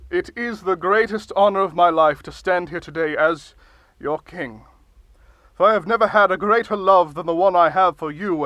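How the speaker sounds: grand, pompous speechmaking; blustery pompous mayor. Acted. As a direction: deliver it like a self-important ruler. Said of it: "Can you maybe not shout".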